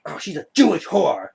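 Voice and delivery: retold loud outburst; loud exclamation. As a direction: announce it loudly, imitating her. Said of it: "like, loudly".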